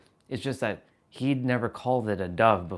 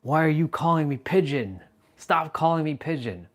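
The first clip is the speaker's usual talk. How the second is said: retold angry complaint; 4 semitones higher, 3 dB louder than usual. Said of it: "I got so mad that day".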